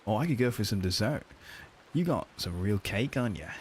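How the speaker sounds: flirty tip in mock Australian; put-on Aussie accent, coaching by example. Shown as a demonstration. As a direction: demonstrate a cheeky Australian accent. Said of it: "He needs to do the Australian accent".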